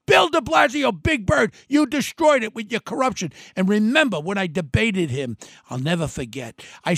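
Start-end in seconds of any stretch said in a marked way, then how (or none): 0.1-3.3 angry call-out. Real, not acted. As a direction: yell his name in real anger. Calling out his political enemy.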